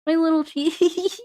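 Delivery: cooing over its cheese like a little creature; creepy little-creature voice. Pretend. Streamer playing a creature cooing over its cheese, slowly. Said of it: "I shouldn't say that weirdly".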